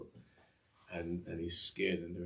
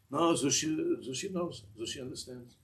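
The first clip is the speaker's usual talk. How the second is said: eager promising; 7 semitones higher than usual. Retold or imitated. Zushi assures the Rebbe he understands, eager promising. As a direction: imitate an eager promise in a raised pitch.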